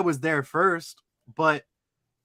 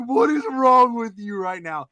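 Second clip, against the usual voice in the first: retold outrage; 6 semitones higher, 4 dB louder than usual. Retells his outraged reply to woman.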